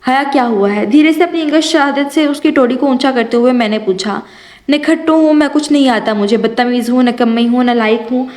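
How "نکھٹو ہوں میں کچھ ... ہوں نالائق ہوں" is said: mild tearful, angry self-scolding; a touch of weepy anger; crying angrily. Acted. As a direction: sulk through tears, understated. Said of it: "وہ روتے ہوئے غصے سے کہہ رہی تھی".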